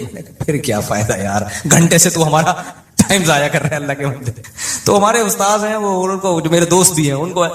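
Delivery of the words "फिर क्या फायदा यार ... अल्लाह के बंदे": dismissive quip. Retold or imitated. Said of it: "उनको मेरे style पर ना".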